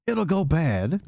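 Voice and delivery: high, sassy voice, whiny refusal; Dahlia's high voice. Acted. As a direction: brush him off in a high sing-song.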